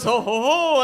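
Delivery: loud jolly ho-ho-ho; hearty Santa call; Santa's belly laugh. Retold or imitated. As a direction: carry on as Santa without missing a beat. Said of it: "He goes".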